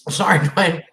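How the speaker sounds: talking through a mouthful of food; laugh, then speak around a bite; mouth full. Real, not acted. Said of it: "I have my mouth full".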